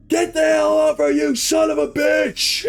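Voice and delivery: high-pitched angry screamed cursing; furious swearing. Retold or imitated. Chris swearing up a storm at the bear, furious yelling. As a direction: curse it out at full strain. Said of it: "he's swearing up a storm".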